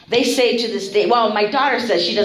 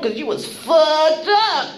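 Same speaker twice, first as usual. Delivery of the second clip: retold retort; 7 semitones higher, slower than usual. Retold teasing retort to detox acquaintance.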